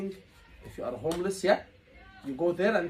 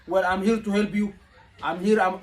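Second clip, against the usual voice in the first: louder, laughing, too brisk; wrong tone of voice; 6 dB louder than usual. Shown as a demonstration. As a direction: blurt it out cheerfully, too loud for a worried teen. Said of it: "no, your tone of voice".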